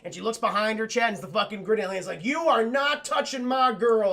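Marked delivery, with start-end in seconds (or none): 2.2-4.1 slow, hammed-up warning; mock threat. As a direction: warn them off, drawn out. Alien villain's retold threat.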